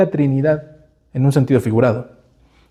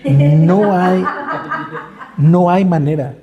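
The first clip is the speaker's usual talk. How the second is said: laughing through the words; amused laugh on no hay manera; 4 semitones higher, much slower than usual. Real, not acted. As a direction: chuckle as you admit it. Laughing at life without hope.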